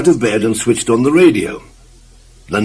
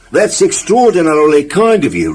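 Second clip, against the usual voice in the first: polite thanks; 6 semitones higher, 4 dB louder than usual. Acted. Clumsy thanks the farmer.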